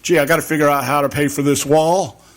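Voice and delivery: imitating a shrugging official, lightly voiced; mock Mexican president. Radio host mocks Mexico's president as a lightly voiced figure. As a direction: play the president of Mexico pretending to worry. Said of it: "sitting down there going".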